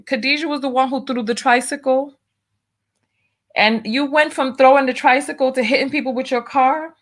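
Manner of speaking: high-pitched, disbelieving questioning; incredulous. Real, not acted. Astonished at a viewer's confession.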